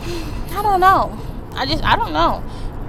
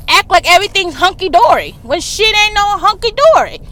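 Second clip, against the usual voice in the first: fed-up mock confrontation; outraged rant. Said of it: "And I'm like".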